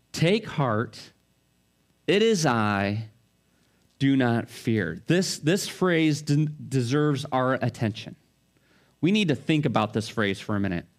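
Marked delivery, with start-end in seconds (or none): 0.1-5.0 gentle repeat of comfort. Acted. Jesus repeats comfort to the terrified disciples. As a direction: let the words settle gently. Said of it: "Jesus' voice rings out".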